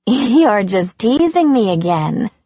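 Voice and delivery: slow, uneasy laugh into denial; wife laughing nervously at the news. Acted. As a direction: laugh it off, hoping he's joking. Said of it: "laughing nervously".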